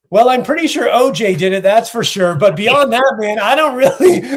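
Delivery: mock nervous agreeableness. Comic placating racist boat guide, mock nervous agreeableness. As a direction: play along uneasily, pitch lifted.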